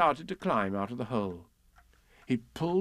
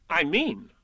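explaining Rabbit; 5 semitones higher, 3 dB louder than usual. Acted. Voices Rabbit.

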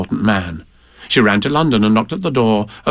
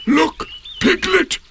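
much higher, slow delighted call; showing off; slower than usual. A narrator's reading. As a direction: look what I can do. Eeyore shows off to Piglet.

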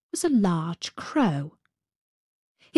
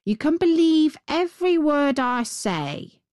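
higher, lightly voiced crow; assuring crow; 6 semitones higher than usual. A narrator's reading. Crow vouches for its tale to Gerda, assuring. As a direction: insist on it in a raised voice.

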